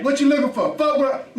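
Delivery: annoyed mock confrontation. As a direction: let the annoyance spill out. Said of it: "then be like".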